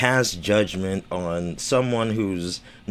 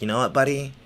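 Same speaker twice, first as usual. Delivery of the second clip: condescending boss voice; 5 semitones higher, much faster than usual. Retold or imitated. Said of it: "even bosses, like".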